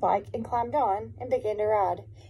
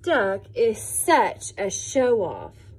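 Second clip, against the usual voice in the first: slow mocking; 4 dB louder, much slower than usual. Pigs' thought, slow.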